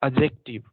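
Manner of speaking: एडजेक्टिव said "अजेक्टिव" without the d; silent d. Shown as a demonstration. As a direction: drop the d in एडजेक्टिव. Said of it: "डी नहीं बोलना है उसमें". (एडजेक्टिव बिना ड के)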